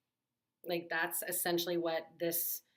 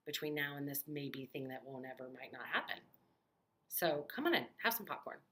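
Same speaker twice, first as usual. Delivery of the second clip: soothing. Retold or imitated. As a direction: gently invite her inside. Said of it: "give her a robe and hug her and say".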